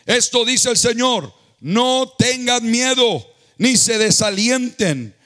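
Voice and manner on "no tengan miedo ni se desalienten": drawn-out pulpit proclamation; fervent preaching. Acted. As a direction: proclaim it over the crowd. Preaches God's words with force.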